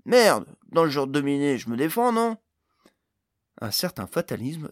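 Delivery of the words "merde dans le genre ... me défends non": loud, higher-pitched swearing outburst; forceful aggrieved character cry. A narrator's reading. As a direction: burst out in loud acted exasperation. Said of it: "s'écria Pod".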